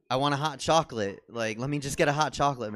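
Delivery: begging the barista, half laughing; insistent whine. Retold or imitated.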